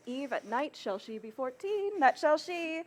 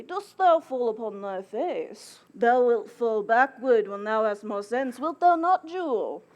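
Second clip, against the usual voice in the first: a hint of the merry husband, louder; lightly voiced husband; 6 dB louder than usual. Nurse quotes her late husband to the mother, lightly voiced husband. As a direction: act out the husband's teasing, lightly. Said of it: "quoth he".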